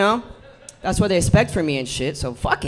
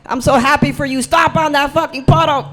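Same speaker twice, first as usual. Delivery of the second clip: imagined onlooker. Retold or imitated. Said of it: "someone's gonna be like".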